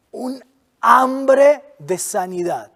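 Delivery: breathy slow whisper. Acted. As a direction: whisper it slowly, like a secret longing. Preacher stresses woman's desperation.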